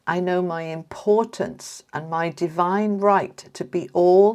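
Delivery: slow, deliberate affirmation read; measured card reading, lingering on key words. Real, not acted. Reader reading an affirmation card to Scorpio viewers, slow and deliberate.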